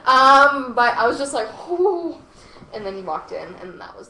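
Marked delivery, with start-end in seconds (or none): 1.7-2.2 high, loud blown-out "whoo"; reenacted stunned "whoo", pitched up; acted exhaled whoo. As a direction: let out a big acted "whoo". Acts out reaction after he claps.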